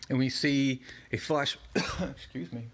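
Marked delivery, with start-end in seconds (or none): 1.2-2.6 coughing, throat strained; sore throat. Real, not acted. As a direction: clear a scratchy throat. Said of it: "takes a lot out of my throat".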